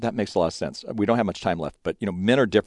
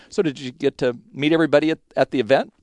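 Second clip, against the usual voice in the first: sarcastic; 5 semitones higher, 4 dB louder than usual. Retold or imitated.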